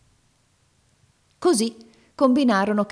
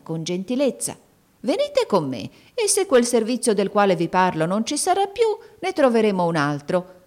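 put-on sweet-talking old woman; 3 semitones higher, 4 dB louder than usual. Old woman lures the crying girl, coaxing and sugary. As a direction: wheedle the girl kindly but falsely.

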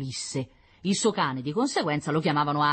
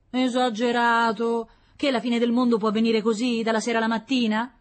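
higher, louder mocking voice; scoffing neighbour; 8 semitones higher, 6 dB louder than usual. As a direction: scoff at the doom-monger. Sceptic voiced in dialogue.

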